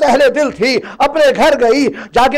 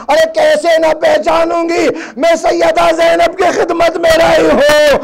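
anguished cry; 4 semitones higher than usual. Acted. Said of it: "تڑپ کر کہا".

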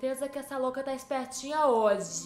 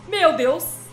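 startled shout; 4 semitones higher, 11 dB louder than usual. Real, not acted. Sudden scare.

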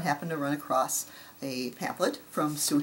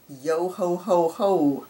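pirate Santa laugh; 3 semitones higher, 5 dB louder, much slower than usual. Pretend. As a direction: chant it like a jolly pirate. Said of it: "pirate Santa design shown".

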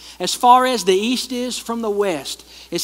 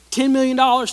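loud contrast; 6 semitones higher, 5 dB louder than usual. Shown as a demonstration. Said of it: "Ten million dollars, ten bucks".

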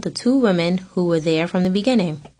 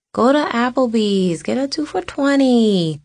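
higher, louder teasing aunt voice; 6 semitones higher, 3 dB louder than usual. Retold or imitated. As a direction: tease her niece with a cheeky offer. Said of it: "teasing me".

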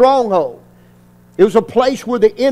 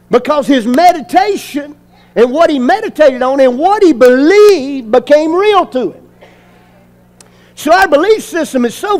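raised, insistent sermon delivery; emphatic preaching; 3 semitones higher, 3 dB louder than usual. Real, not acted. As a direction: drive the point home to the congregation. Preaches with rising force.

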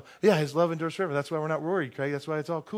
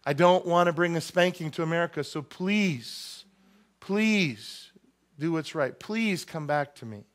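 pleading God; 3 semitones higher than usual. Acted. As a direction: gently beg America to return.

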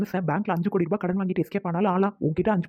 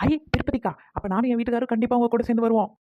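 excited; 5 semitones higher than usual. Acted. Eager to join trip.

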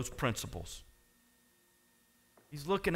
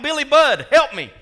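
very loud, high mock plea; acted, high-pitched call for rescue; crying out for help; 11 semitones higher, 13 dB louder than usual. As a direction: shout it out from the pulpit. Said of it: "they cry out".

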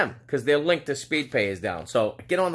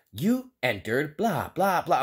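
mock robot voice; slower than usual. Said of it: "They're like".

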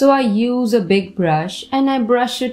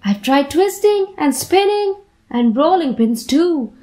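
a lightly voiced girl, a bit higher and fed up; girl's voice; 4 semitones higher than usual. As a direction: play the sulky girl, pitched up a touch. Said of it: "She says".

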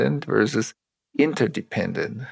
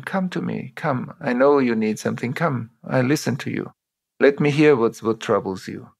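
inviting leader. Retold or imitated. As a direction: gently invite them in. Leader inviting employee in warmly.

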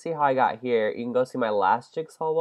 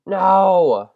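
yell; 7 semitones higher, 10 dB louder than usual. Real, not acted. Falls again.

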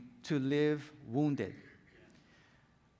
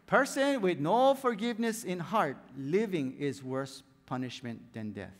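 Mister Miyagi. Retold or imitated. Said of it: "Daniel-san".

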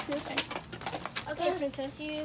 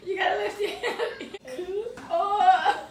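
laughing; slower than usual. Real, not acted. Laughing at a trick.

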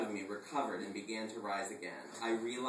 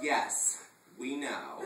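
dismissive; 4 dB louder, much slower than usual. Acted. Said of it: "uncongenial roll of his eyes".

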